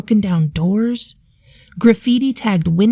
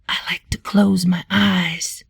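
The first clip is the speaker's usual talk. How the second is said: whispered; 2 semitones lower than usual. Acted. Blind man whispers to the boy about music, whispering. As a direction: hush it like sharing a secret. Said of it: "the blind man whispered".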